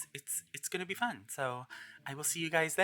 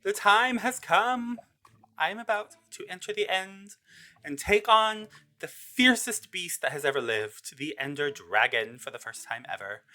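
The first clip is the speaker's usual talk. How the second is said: dramatic announcement; 5 semitones higher than usual. Pretend. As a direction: announce the great quest, starting higher in pitch. Dramatic build-up to boss fight.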